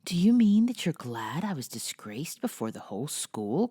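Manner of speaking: put-on hurt girl's half-whispered protest; mock-wounded cry of injured pride. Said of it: "cried Amy".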